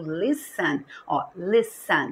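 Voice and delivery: "listen" stressed on its first syllable. Shown as a demonstration. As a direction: say "listen" as LIS-en, second syllable light. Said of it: "A sílaba forte é o li".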